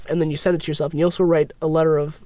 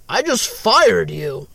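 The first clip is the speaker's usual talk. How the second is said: mock firing; much slower than usual. Acting out firing himself.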